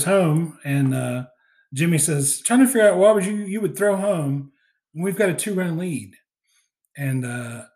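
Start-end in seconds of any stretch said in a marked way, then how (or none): 2.4-6.2 higher, exasperated retold telling-off; mock scolding. Jimmy scolding a player for throwing home, mock exasperated. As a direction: imitate a manager demanding an explanation.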